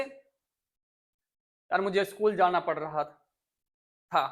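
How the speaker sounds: slow, dragging complaint about school; drawn-out reluctant whine. Retold or imitated. (बच्चे की तरह धीमी, खिंची हुई शिकायत)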